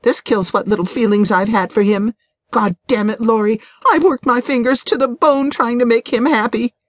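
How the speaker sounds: indignant, high-pitched wife's outburst; temper flaring. A narrator's reading. Betrayed wife rants to her friend about her husband, temper flaring. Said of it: "Janet's temper flared".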